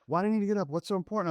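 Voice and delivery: put-on high whiny groggy teen; grumpy teen. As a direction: whine like a woken teenager. Son's whiny reply imitated.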